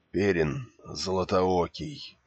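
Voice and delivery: slow, breathless and hoarse; each word gasped out, dying; gasping for breath. Acted. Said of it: "задыхаясь, прохрипел раненый".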